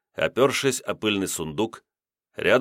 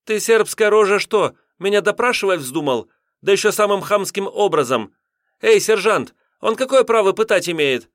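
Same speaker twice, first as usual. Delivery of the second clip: tears in throat; 12 semitones higher, 6 dB louder than usual. A narrator's reading. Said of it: "со слезами в горле".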